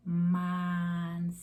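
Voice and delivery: manzana drawn out slow and steady, every sound held; droning. Shown as a demonstration. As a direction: stretch manzana in one long smooth hum. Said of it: "if I'm doing droning".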